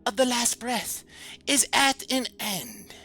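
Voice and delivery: high, slow, sarcastic whisper; mock the captain in a sneering whisper; dripping sarcasm. Possessed first mate mocking his old captain, sarcastic whisper. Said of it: "with his voice dripping with sarcasm".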